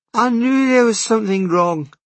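put-on quick, sympathetic young waitress. Waitress talking to Ed.

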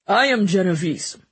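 jovial glutton voice; Mancini voice. A narrator's reading. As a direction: boom it out like a greedy jester. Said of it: "spitting a few crumbs as he spoke".

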